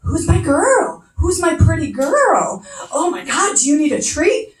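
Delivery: imitating husband gushing over the dog; doggy baby talk. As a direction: coo at the dog like a doting owner. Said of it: "It's like".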